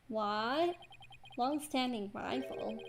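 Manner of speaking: slow, rising "Long-standing rival?"; incredulous. Acted. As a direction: stretch "Long-standing" in disbelief. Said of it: "When were we ever rivals".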